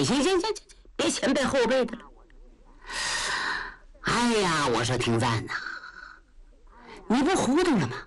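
嗓门偏高, 快嘴憨直的糊涂老将, 理直气壮; 像个大大咧咧的老粗跟皇上讲歪理; 焦廷贵. Acted. 焦廷贵数落高廷赞. (高嗓门、语速快的憨直老将)

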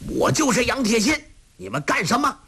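high, fast, defiant shout; loud rebuke. A narrator's reading. Yang Tiexin confronting the soldiers, high defiant shout. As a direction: throw the challenge out boldly. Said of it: "大声喝道".

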